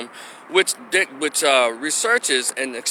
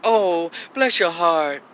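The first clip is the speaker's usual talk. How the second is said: slow, drawn-out imitated sympathy; lightly put-on condescending sympathy; mock pity; slower than usual. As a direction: stretch it out like a pitying onlooker. Imitates people pitying and excusing Peter.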